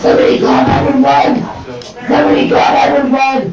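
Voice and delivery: frantic shout for help; desperate shouting. Real, not acted. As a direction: shout it over and over.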